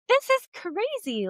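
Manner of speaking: high, excited squeal of disbelief; amazed. Retold or imitated. Telling viewers her dream came true, high amazed squeal. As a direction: burst out in delighted amazement. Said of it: "And now I'm like".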